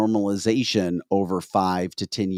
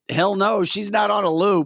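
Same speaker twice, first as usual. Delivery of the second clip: exclaiming; 10 semitones higher, 3 dB louder than usual. Retold or imitated. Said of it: "I was like".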